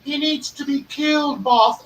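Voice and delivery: high, lightly voiced mafia adviser murmuring to the boss; a hint of a sly consigliere whisper-to-the-ear. Consigliere advising the mafia boss, lightly voiced sly henchman. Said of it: "He's like".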